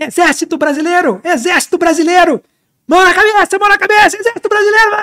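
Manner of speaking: wild, frantic, high-pitched crazed yelling. Retelling how a soldier yelled at the intruders: imitating Raio yelling like a madman. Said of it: "ouvir o Raio gritar que nem um louco".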